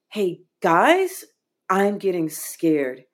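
a hint of a frightened kid piping up; nine-year-old self. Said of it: "my nine-year-old self sitting next to me".

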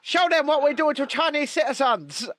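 high mock Chinese accent. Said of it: "trying to do a Chinese accent".

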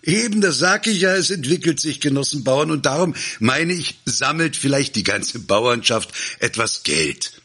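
very high, excited outburst easing slightly; breakneck-eager orator, pitch way up; eager appeal. A narrator's reading. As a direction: seize on it and plead for donations. Orator seizes chance to appeal for money.

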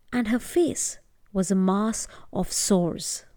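gentle storytelling voice; story narration. A narrator's reading. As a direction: tell it like a bedtime tale. Storyteller narrating a folk tale.

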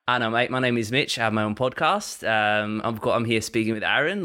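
a hesitant mock Australian accent; Australian accent attempt. Shown as a demonstration. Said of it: "imitate an Australian accent".

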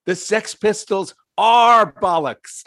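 loud, high, slow New Zealand shout; New Zealand accent. Retold or imitated. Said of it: "voice with a New Zealand accent".

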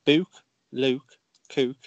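"Book" with a long oo, like "Luke"; Stoke "ook" sound. Shown as a demonstration. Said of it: "anything that goes ook in it".

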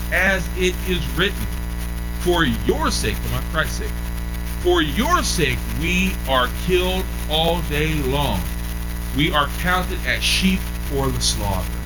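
slow, deliberate reading of the verse; slow scripture reading. Acted. Preacher reading the verse aloud to the church, slow and solemn.

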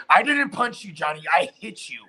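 a hint of a taunting wife; mild mimicry of a sneering wife; mocking her. Mocking Amber voice continues.

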